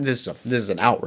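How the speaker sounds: low, fast, indignant goblin; goblin outrage. Acted. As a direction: spit out the outrage. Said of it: "Chops gets real grumbly".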